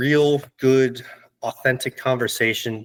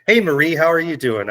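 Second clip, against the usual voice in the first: "Hey, Marie" sung out higher and brighter, with a lift on "Hey"; cheerful greeting; 5 semitones higher than usual. Shown as a demonstration. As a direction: greet the cashier like an old friend, upbeat. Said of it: "that simple thing of".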